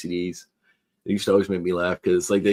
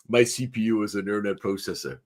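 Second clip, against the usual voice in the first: mock Austrian-accented movie robot; Arnold Schwarzenegger; 3 dB quieter than usual. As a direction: imitate the film star's stiff line reading. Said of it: "they play the clip where he goes".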